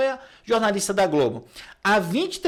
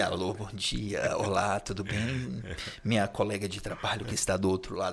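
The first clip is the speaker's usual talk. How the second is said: very low, very slow, deep radio announcer voice; 12 semitones lower, 9 dB quieter than usual. Describing a colleague's voice to the co-host, imitating Marcelo's announcer voice. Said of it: "aquele locutor".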